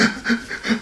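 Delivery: quick breathy mock sobbing; soft, huffed crying noises; imitated heaving sobs. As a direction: imitate someone heaving as he cries. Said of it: "he started crying and heaving".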